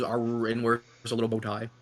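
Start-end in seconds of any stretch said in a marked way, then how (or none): 0.0-0.5 low imitated dog "arr"; casual mock beagle noise. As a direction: do a little beagle howl in your own voice. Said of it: "He goes".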